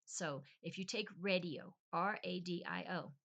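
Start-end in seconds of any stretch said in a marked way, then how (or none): 1.2-1.7 radio as RAY-dee-oh; English radio. Shown as a demonstration. Setting up a comparison, radio as English RAY-dee-oh. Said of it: "Instead of radio".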